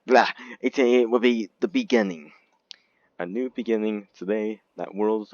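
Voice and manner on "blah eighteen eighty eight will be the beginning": whisper. Acted. Whispered aside correcting himself.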